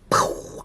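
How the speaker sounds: airy exploding "pow" sound effect; blown-away "pow"; mind-blown noise. Retold or imitated. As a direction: puff out a loud, voiceless blast. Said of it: "I'm mind blown".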